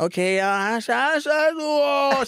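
high, loud mock disgust; mocking kids chorus. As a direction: imitate the whole class jeering. Classmates join the jeering. (hånende barnekor, høyt)

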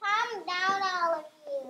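calm a panicking crowd; reassuring wise owl. Acted. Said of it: "Wise old owl reassured them".

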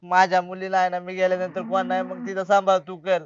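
low, sorrowful plea; subdued weepy entreaty; tearful. Acted. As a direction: plead as if holding back tears. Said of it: "रडताय कशाला भाऊजी".

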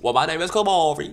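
mock campy guy. Solicitor introducing himself, lilting and high. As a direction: sing the name out lightly.

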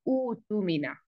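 ऊ तू मीना with a drawn-out ऊ running into तू; long ऊ, no pause. Shown as a demonstration. Teacher shows how to begin the word, long-ऊ pronunciation. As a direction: stretch ऊ in ऊ तू मीना, slowly, without a break. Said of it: "एक तो उसको ऊ पढ़ देंगे".

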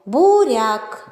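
Буряк drawn out in two syllables; протяжно по складах. Shown as a demonstration. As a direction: sound out Буряк with held vowels. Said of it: "в назві яких є звук О". («Буряк» протяжно, по складах)

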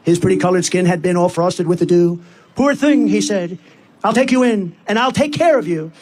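measured, rhythmic poem reading; storytelling in verse, line by line; poem recitation. Acted. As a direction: recite the verse to a crowd in steady cadence.

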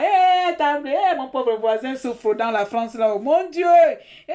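sudden loud, high cry of indignation; indignant outburst. Real, not acted. Ranting to viewers about her suffering neighbour, loud indignant outburst. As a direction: erupt in outrage over the neighbour.

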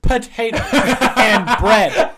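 loud, laughing through the words; cracking up mid-sentence. Real, not acted. Laughing at his Irish diet.

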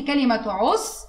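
عصفور with rounded lips and a lengthened u; stretched demo. Shown as a demonstration. Teacher shows pupil the waw madd, rounded and stretched. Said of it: "ضميت بقي جامد قوي كده ومديت".

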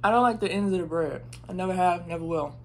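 chewing while talking; words round a bite of toast; mouth full. Real, not acted. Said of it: "talking with my mouth full".

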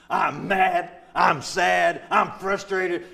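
loud, punchy list of complaints; hammed-up outburst of frustration; mock venting. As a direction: blurt out each feeling forcefully. Acting out his venting prayer.

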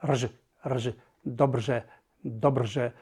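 rż and dobrze with a fused trilled r plus ż sound, rż, as in Czech; Czech-style ř. Shown as a demonstration. Teacher shows students the old Czech rż in dobrze, carefully. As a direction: dobrze pronounced with the Czech ř, rolled r buzzing into ż. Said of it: "czyta się prawie tak jak złożone takie".

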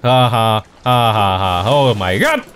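laughing. Real, not acted. Laughing at a funny game moment.

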